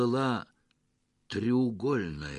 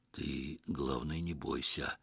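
softer, slow, husky coaching; hoarse, much softer advice; hoarse instruction; 7 semitones lower, 9 dB quieter, slower than usual. Acted. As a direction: hoarsely teach a scared friend. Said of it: "сипло поучал Петро".

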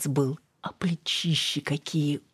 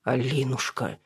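near sob; 3 dB quieter than usual. A narrator's reading. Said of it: "чуть ли не всхлипнул мужчина".

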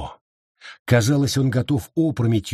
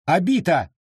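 raised-pitch scolding call; sharp rebuke; 6 semitones higher than usual. A narrator's reading. Edward silences his outspoken wife, sharply rebuking. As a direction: pull her up short by name. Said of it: "прикрикнул на неё Эдвард".

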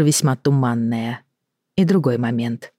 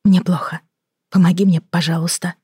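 pitched up plea for help; 3 semitones higher than usual. Acted. Elena begs.

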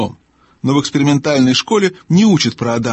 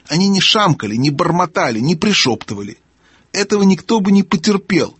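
higher-pitched querulous gnome; testy old gnome, grumbling; 5 semitones higher than usual. Acted. Deaf gnome complaining of mumbling beasts, testy. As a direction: complain in a high character voice.

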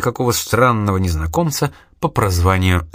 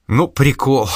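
a bright amused exclamation, pitched up; exclaiming; 4 semitones higher, slower than usual. A narrator's reading. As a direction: blurt it out delighted. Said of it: "воскликнула она". (радостно воскликнуть)

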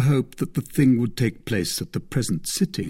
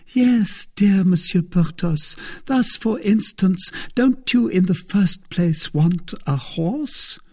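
a higher, louder voice for the thrifty procurator's wife; Madame Coquenard, coaxing; 10 semitones higher, 4 dB louder than usual. Acted. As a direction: play the careful wife bargaining. Madame Coquenard quoted in the story.

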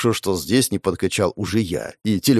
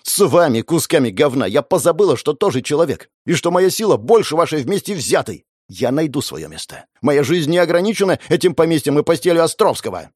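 raging yell; 5 semitones higher than usual. Acted. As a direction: throw it in their faces. Sofia raging at family.

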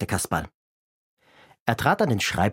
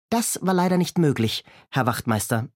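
cheeky Kasperl; 3 semitones higher than usual. Acted. Kasperl voiced in reading.

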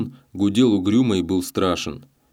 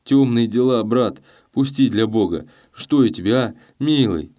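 fearful pleading; 4 semitones higher, 4 dB louder than usual. Acted. Gavrila still begging.

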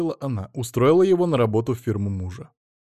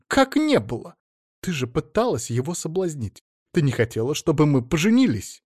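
agitated; 5 semitones higher, 4 dB louder than usual. Acted. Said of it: "заволновалась Людмила Фёдоровна".

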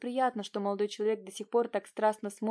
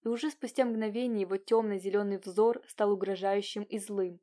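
ordinary delivery, nothing marked

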